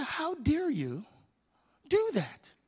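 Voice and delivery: a hammed-up how dare you; mock indignation. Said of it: "I'm getting mad".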